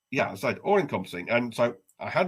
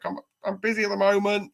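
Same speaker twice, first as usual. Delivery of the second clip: higher, strained polite answer; mock polite reply; 7 semitones higher, 4 dB louder than usual. Man stuck on the toilet answering the knock, higher and polite. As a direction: call back through the door, politely.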